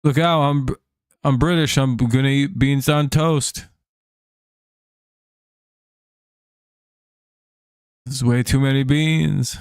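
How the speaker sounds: badly faked British accent. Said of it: "British, that's even easier".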